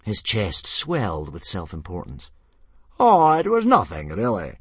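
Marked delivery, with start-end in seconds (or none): 3.0-4.6 loud, high bellow dropping away at the end; big-voiced humble brag; modest bellow. A narrator's reading. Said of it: "he bellowed modestly".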